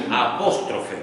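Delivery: "apóstrofe" spelled out by sound, each syllable distinct; "apóstrofe" measured out for note-takers; dictated term. Shown as a demonstration. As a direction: say "apóstrofe" carefully, just as it is written. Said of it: "así como suena".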